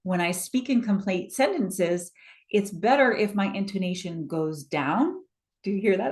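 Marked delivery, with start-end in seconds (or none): 2.5-5.2 DOWN lifted at the end, like a question; rise on DOWN. Shown as a demonstration. Coach demonstrating intonation to the audience, rise on DOWN. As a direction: let DOWN go up in pitch. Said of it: "I went up and down".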